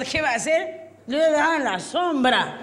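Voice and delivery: put-on high, muddled drunk protest; hammed-up tipsy innocence; clueless drunk. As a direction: play a drunk defending himself. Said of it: "Y el borracho dice".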